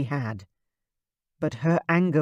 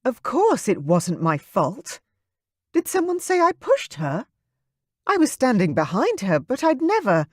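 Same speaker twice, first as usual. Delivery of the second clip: higher, defensive indignation; indignant; 8 semitones higher than usual. Acted. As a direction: bristle at the accusation. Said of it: "her gaze turning to a glare".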